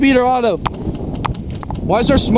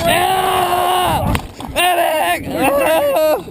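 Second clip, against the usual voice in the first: pained shout; 6 semitones higher, much slower than usual. Acted. Wounded player screaming for medic.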